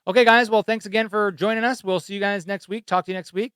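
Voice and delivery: loud, high radio host sign-off; booming announcer wrap-up. Real, not acted. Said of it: "I love how you put on your announcer voice".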